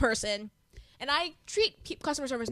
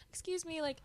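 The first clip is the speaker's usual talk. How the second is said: quiet, polite, getting nowhere; timid shopper asking to pass; soft-spoken; 5 semitones higher, 7 dB quieter than usual. Retold or imitated. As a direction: mumble it gently to strangers. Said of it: "I'm kinda soft spoken".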